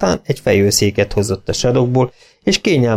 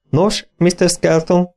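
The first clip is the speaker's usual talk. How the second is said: mock chatty rumble; 7 semitones higher, slower than usual. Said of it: "dörmögte csevegő hangon Evan".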